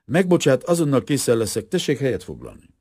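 lightly acted confusion, apologising to a guest; embarrassed, flustered. A narrator's reading. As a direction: excuse yourself in an embarrassed fluster. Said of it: "motyogta a professzor zavartan".

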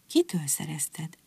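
whispered, slow question; hushed whisper. A narrator's reading. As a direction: breathe it out in wonder. Mother astonished, hushed question.

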